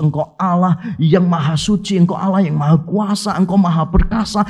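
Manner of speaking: lightly mocked pious listing of titles; hint of a solemn pray-er reciting names; long-winded prayer. Mocking a preacher who lists God's titles, a light pious voice. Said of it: "doanya kurang lebih begini".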